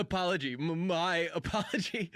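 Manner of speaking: mock malfunctioning loop of apology; hammed-up helpless stutter; stuck in a loop. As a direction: drag it out, then stammer through laughter. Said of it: "he just starts to go like".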